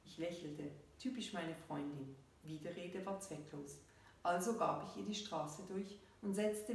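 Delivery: measured reading with falling sentence ends; story narration. A narrator's reading. Author reads her story to listeners, measured narration. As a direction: read the story out evenly, pausing between phrases.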